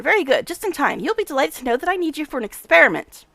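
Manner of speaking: lightly played brisk, self-important scientist; a touch of the mad professor, pleased; eccentric scientist. Voices Nenio the scientist.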